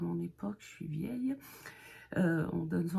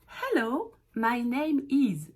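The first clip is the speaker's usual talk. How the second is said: slow model phrase; 4 semitones higher, slower than usual. Shown as a demonstration. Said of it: "on commence par, euh, donner son nom".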